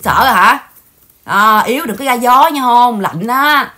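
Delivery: loud mocking dare; jeering taunt. Real, not acted. Daring the absent rival to keep going, loud and mocking. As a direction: egg her on to try again.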